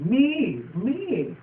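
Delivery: high hoots; owl hoot. Retold or imitated. The owl hooting, high. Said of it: "It's like".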